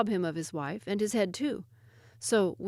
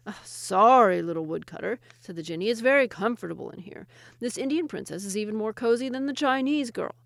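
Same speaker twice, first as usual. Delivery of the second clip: loud, mocking jinni; smug jinni; 2 semitones higher, 6 dB louder than usual. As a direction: tease him comfortably. Jinni refuses smugly.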